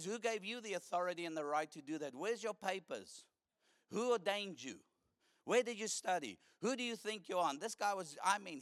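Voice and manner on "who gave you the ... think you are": confronting the street preacher, mock-angry minister demanding credentials; angry confrontation. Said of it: "He was fuming".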